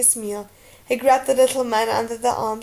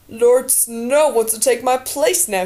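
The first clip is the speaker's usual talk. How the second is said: slow, mocking sneer; 4 dB louder, slower than usual. A narrator's reading. Alistair mocking Jon before the others, slow sneer. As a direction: draw it out with scornful disdain. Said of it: "he sneered".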